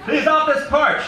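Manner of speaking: very high, loud, slow echoing yell; shouted back. Acted. Eddie shouting Poltoy's words back at her, very high and loud. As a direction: hurl the order back, gleefully mimicking her. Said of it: "she shouted back".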